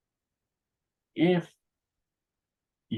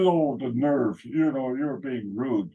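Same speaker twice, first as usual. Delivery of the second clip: mock indignant; 3 semitones higher, slower than usual. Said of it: "He was indignant".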